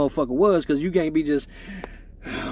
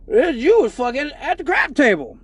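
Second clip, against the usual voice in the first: Judge Joe Brown; 3 semitones higher than usual. Retold or imitated. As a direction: read the charge like a stern, unimpressed judge. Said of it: "went immediately into Judge Joe Brown".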